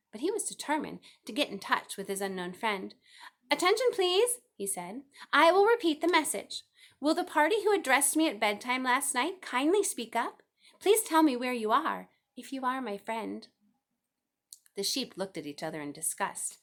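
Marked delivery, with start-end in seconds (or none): 3.5-4.4 high, loud call for attention; loud and firm. A narrator's reading. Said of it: "in a loud, firm voice". 5.3-13.5 high, loud, pleading announcement; loud and firm. A narrator's reading. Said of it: "in a loud, firm voice".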